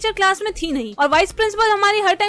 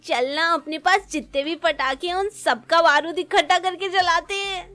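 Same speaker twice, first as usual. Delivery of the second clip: put-on kids plotting. Acts out children plotting with firecrackers.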